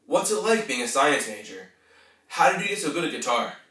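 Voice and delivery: curious, engaged questioning; interested. Shown as a demonstration. Coach showing small talk with a student, interested. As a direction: ask with real interest. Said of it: "You can sound interested".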